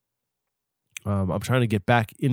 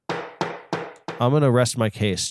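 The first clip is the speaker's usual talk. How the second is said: slow solemn pronouncement; slower than usual. Shown as a demonstration. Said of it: "I'm sorry. I rest my case".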